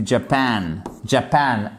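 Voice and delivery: Japan with the second syllable stressed. Shown as a demonstration. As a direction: model Japan, weight on -PAN. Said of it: "c'est sur la seconde syllabe". (Japan accentué sur la seconde syllabe)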